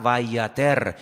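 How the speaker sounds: vayater, back to E in the last syllable; Hebrew pronunciation demo. Shown as a demonstration. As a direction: say vayater, ending in -ter. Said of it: "las vocales se ponen diferentes".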